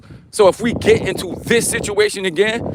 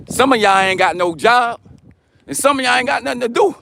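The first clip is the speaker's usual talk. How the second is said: movie quote; 5 semitones higher than usual. Retold or imitated. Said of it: "Where I get that from? What movie".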